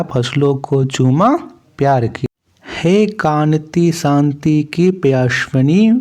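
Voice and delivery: measured, lilting verse reading; steady classroom poem reading; poem recitation. Acted. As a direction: recite the verse line by line, drawing out some phrases.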